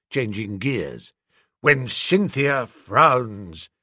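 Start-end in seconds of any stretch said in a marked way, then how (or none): 1.6-3.7 slow, darker recital of the verse; gloomy verse. Acted. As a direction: turn the poem mournful.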